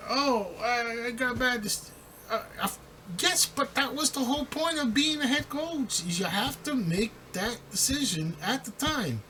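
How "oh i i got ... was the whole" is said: high, put-on excuse voice; mock whiny excuse. Mocking a coach who blames bad advice. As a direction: whine the excuse in mockery. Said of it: "mocking the coach's excuse".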